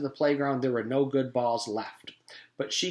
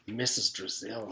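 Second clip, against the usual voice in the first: whisper; 3 semitones lower, 6 dB quieter than usual. A narrator's reading. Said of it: "he whispered".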